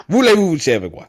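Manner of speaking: high hammed-up French phrase; French accent. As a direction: lay the French on thick. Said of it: "the French accent".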